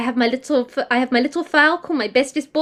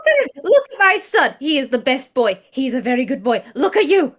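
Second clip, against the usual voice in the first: put-on doting baby talk. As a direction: coo at the pup like a proud parent. Cooing over the dog.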